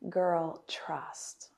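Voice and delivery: whispered reassurance to a friend; breathy hushed quote, like a secret; hushed girl trust. Retold or imitated. Friend reassures her, whispered girl trust.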